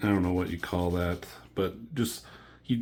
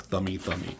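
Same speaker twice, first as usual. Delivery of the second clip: silly sound effect; 7 dB quieter than usual. Retold or imitated. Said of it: "silly sound effect".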